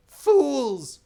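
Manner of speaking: high, loud furious yell; the stranger raging at the sailors, furious shout. Acted. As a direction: explode at them, stamping with rage. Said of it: "stamping his foot with rage".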